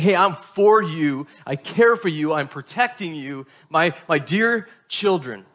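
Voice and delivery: put-on like a father reassuring his dear children; loving, caring. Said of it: "communicating his love and his care".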